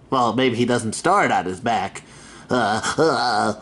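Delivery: lightly voiced grumbling troll; a hint of a troll voice. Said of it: "That was my troll voice".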